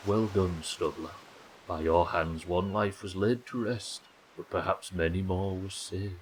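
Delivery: measured, softening toward the end; lightly voiced solemn praise; grateful quest giver. Ghost thanking the hero for slaying the beast, solemn.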